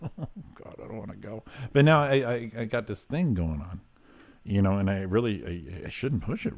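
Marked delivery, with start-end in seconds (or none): 0.0-1.4 soft, half-whispered mock dread. Dreading the haunted hayride.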